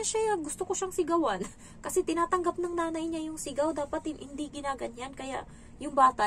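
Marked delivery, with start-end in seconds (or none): 0.0-1.4 put-on high, petulant kid voice; child's answer. Lightly voiced child saying he wants to yell at his mom. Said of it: "Sabi niya".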